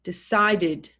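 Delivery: Decided with the final syllable sounded as id; slow model word for a class; clear id ending. Shown as a demonstration. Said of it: "It's pronounced id".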